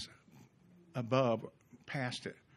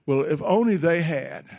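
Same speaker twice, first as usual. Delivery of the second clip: blaming whine; 7 dB louder than usual. Retold or imitated. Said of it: "pointing the finger".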